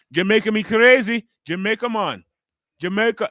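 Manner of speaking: loud, high mock Jamaican accent. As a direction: imitate a wrestler hyping up a Jamaican accent. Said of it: "with the Jamaican accent at first".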